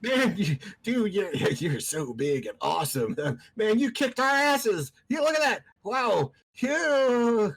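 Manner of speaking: squeaky flattering creature. Acted. GM voicing cowering creature, very high.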